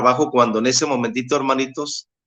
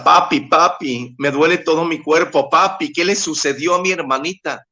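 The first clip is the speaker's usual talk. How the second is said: retold tearful plea; 3 semitones higher than usual. Daughter to her father about her hurting body and sister, mildly tearful plea. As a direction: imitate a daughter's distressed cry to papi. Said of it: "Cristina empezó a llorar".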